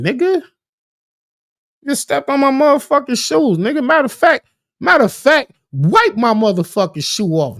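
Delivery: acted belligerence, starting high; looking for trouble. Man to whoever stepped on his shoe, acted belligerent. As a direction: play someone itching for a fight. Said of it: "somebody who just looking for a problem".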